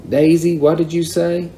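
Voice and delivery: high, rising disbelief; surprised question. A narrator's reading. Surprised Mama to Daisy, high questioning voice.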